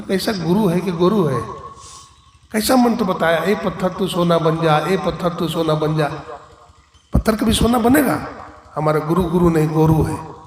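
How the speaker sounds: mock outrage at a useless mantra; voicing an irritated disciple; angry disciple. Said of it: "तो उसे गुस्सा आ गया".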